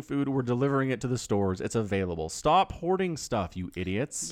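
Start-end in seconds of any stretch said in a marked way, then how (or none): 2.3-4.3 exasperated scolding. Real, not acted. Ranting at hoarders.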